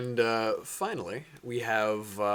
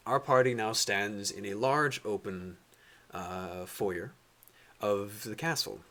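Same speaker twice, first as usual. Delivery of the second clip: measured scene-setting storyteller voice; game master narration; 3 dB quieter than usual. Acted. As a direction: set the scene slowly for the party.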